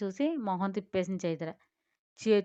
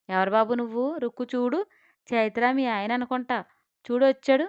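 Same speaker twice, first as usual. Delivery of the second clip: excited call; 3 semitones higher, 6 dB louder than usual. Acted. Grandma calls out excitedly.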